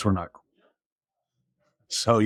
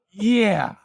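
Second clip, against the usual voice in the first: much higher, laughing mock yes; 11 semitones higher than usual. Suspect admits the name to the officer, laughing in a high voice. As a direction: let the laugh break through the yes.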